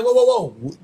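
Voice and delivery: firm mock "hold it right there"; lightly acted warning; retold challenge. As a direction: act out armed men halting someone. Retells gunmen confronting a woman.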